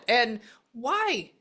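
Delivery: bursting with the spirit's news; high, loud excited reading. Real, not acted. Excited relay of spirit message.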